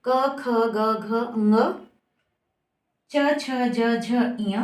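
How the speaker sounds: each letter from क to इय held evenly and separately; pronunciation demo. Shown as a demonstration. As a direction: recite क, ख, ग as a teacher demonstrating each sound. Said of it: "इनका उच्चारण मैं करके बताती हूँ". (अक्षरों का साफ़, अलग-अलग उच्चारण)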